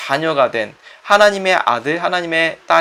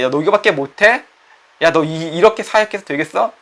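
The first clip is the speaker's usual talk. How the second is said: taunting Satan. Acted. Preacher voicing Satan mocking a doubting believer, sneering.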